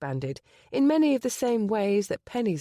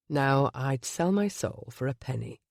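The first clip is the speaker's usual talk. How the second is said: low husky voice; 5 semitones lower than usual. Acted. Gabriel to Penny before the wedding, low husky confession. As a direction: lay bare his past in a low voice. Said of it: "his low, husky voice".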